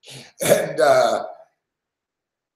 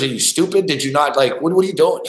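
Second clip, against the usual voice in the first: retold exasperated questioning, raised pitch; bitching fireman; 2 semitones higher than usual. Fireman berating host during fire alarm, bitching. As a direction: imitate someone chewing out a fool. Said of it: "bitching at me".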